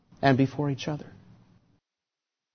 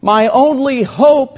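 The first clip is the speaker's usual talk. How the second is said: anguished confession; 5 semitones higher, 4 dB louder than usual. Acted. Preacher speaking as the tax collector, anguished before God. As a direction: confess it as the desperate sinner. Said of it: "He's saying to God".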